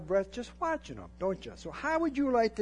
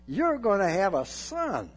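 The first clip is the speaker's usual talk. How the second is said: loud retelling; 3 semitones higher, 5 dB louder than usual. Retold or imitated. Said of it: "sent him back on his heels".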